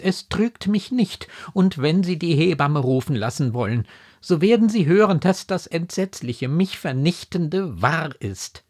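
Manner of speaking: high, loud anguished conviction; impassioned outburst, slowing at the end; desperate, insistent daughter. A narrator's reading. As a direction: insist on the dreadful truth.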